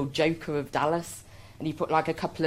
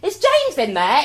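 calling out; 9 semitones higher, 8 dB louder than usual. Retold or imitated. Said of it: "and go".

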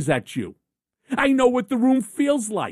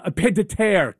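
put-on French accent; 3 semitones lower than usual. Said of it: "let me say with my French accent".

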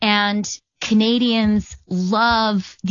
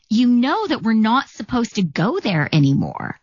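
imitating a guard's gentle telling-off; lightly acted chiding, falling at the end; mild reproach; 3 semitones higher than usual. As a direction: remind her pointedly, with lilting pitch. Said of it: "he looked at me, he said".

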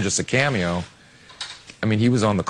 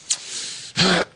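pained gasp; 8 semitones higher than usual. Retold or imitated. Acting Ditka's hip popping out.

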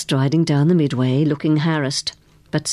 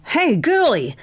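put-on higher-pitched call to a girl; narrated man hailing a kid; mild shout; 9 semitones higher, slower than usual. A narrator's reading. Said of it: "shouted the man".

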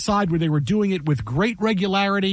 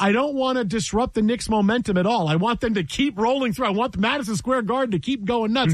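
higher-pitched, insistent mock protest; mock coach's reasoning; 3 semitones higher than usual. Host mocking the losing coach's refusal of timeouts, higher mock protest. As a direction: play up a coach's absurd reasoning.

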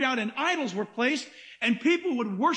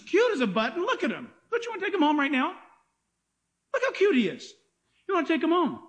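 higher, doting tone; cooing over lamb; 5 semitones higher, faster than usual. Pretend. Preacher coos to the congregation about a cute lamb, higher. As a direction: coo like over a puppy.

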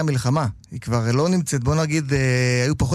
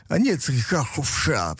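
put-on Russian or Polish accent; 2 semitones lower, slower than usual. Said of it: "או פולני".

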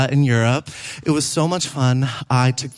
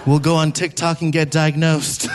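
laughing retort. Retold or imitated. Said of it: "I was like".

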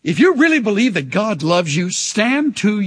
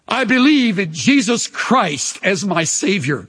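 confession read aloud; 4 semitones higher than usual. Shown as a demonstration. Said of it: "some of you would have to say".

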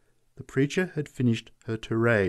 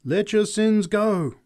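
slow, high, loud exhortation; crying out; 11 semitones higher, 6 dB louder, slower than usual. A narrator's reading. Preacher swaying on the box, crying out slowly. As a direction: draw it out like a hypnotic preacher. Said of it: "she cried".

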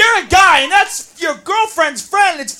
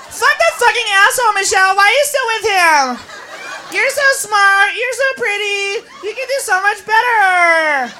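put-on drunk friend egging on.

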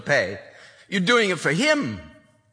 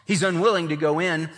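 higher, coaxing plea to come inside; pleading father; 6 semitones higher than usual. Acted. Father begging his son to join the party, coaxing and higher. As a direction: lift the voice and beg gently. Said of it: "father goes out to entreat him".

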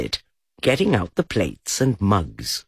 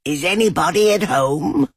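higher, louder call into a hole; higher call of Is anybody at home; 9 semitones higher, 4 dB louder than usual. A narrator's reading. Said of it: "and called out".

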